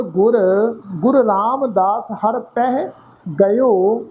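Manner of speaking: measured, drawn-out reading of Gurbani verse; slow scripture recitation. Shown as a demonstration. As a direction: recite each phrase slowly with pauses.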